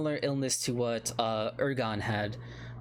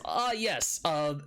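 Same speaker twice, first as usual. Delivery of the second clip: higher, hurried dwarf protesting; flustered old dwarf; 4 semitones higher than usual. Acted. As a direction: brush off the topic in a panic. Dwarf offers the rooms.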